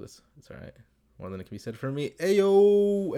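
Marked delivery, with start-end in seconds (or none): 2.2-3.2 high, loud startled ayo; surprised exclamation. Real, not acted. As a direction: blurt it out in shock. Exclaims at email line.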